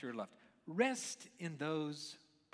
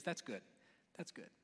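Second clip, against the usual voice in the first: softer, lower, understated verdict; quiet approval; 4 semitones lower, 8 dB quieter than usual. Acted. God looking over each day's creation, quiet approval. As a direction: say it low and softly, almost to yourself. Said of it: "he looked at 'em".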